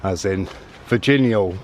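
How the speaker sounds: "Virginial" with an added L at the end; Bristol L. Shown as a demonstration. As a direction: say "Virginial" ending in a dark L sound. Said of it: "is often pronounced as Eol".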